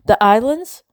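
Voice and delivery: high, loud, rising disbelief; horrified question. A narrator's reading. Isabel hearing Ruth went to the islands, horrified. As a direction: let pitch shoot up in shock.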